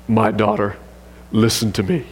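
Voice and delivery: low, smooth romantic croon, half-serious; a playful stab at a deep seductive voice; deep soul-singer voice attempt. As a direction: try to sound like a velvet-voiced crooner. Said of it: "read this with a deep kind of soul singer kind of voice".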